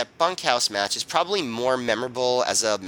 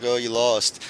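deadpan teenage bad actor; expressionless Mark; slower than usual. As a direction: imitate a stone-faced kid, no expression at all. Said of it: "completely expressionless".

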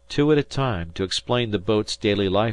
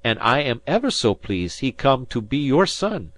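much higher, louder, foreign-lilted sailor; a kindly Portuguese sailor pleading, much higher; Portuguese fisherman; 6 semitones higher, 6 dB louder than usual. A narrator's reading. Manuel's accented fisherman voice.

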